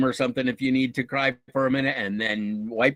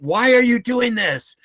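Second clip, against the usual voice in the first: high, slow mock yell of a bystander; a bystander's cry, mimicked high and loud; retold yell; 9 semitones higher, 6 dB louder than usual. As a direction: call it out, high and drawn out. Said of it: "somebody yelled out".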